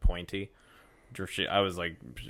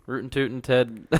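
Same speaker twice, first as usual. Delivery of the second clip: goofy cowboy voice; 5 semitones higher, 6 dB louder than usual. Pretend. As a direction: belt it like a cartoon cowpoke. Goofy cowboy nickname riff.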